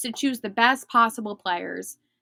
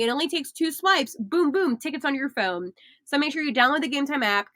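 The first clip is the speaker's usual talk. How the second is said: upbeat sponsor read; lively ad read. Acted. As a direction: sell the app brightly.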